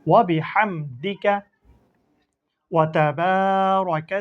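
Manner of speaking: slow, measured chant of the prayer; slow prayer recitation. Shown as a demonstration. Teacher recites the Sana prayer to students, slow and chanted. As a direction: recite it gently, word by word, for pupils to follow. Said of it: "আমরা পুরোটা একসাথে উচ্চারণ করা শিখি".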